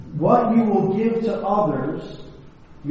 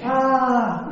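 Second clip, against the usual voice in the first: high, drawn-out "aah" echoing back; mock echoed yell; 7 semitones higher than usual. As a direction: imitate a mountain echo of a scream. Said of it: "yelling back".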